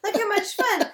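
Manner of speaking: fake giggly. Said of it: "like, weird giggles".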